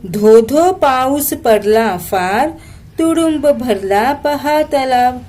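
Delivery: slow sing-song poem reading; poem recitation. Shown as a demonstration. Teacher reciting a Marathi poem to students, slow and sing-song. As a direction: recite the verse slowly for the class.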